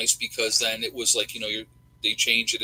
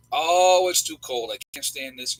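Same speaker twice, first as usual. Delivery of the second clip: mock complaining; 3 semitones higher, 6 dB louder than usual. Host mimics people griping once winter comes, mock complaining. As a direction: imitate a moaner, leaning hard on the opening. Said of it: "people are complaining".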